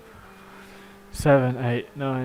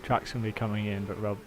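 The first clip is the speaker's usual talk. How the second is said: lightly done radio race engineer update; calm team radio briefing to the driver. Pretend. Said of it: "Thanks for your Porsche race engineer impression".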